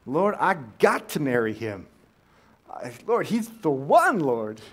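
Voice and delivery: young woman begging God for a husband, mock earnest; mock fervent prayer. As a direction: beg the Lord like a lovesick girl.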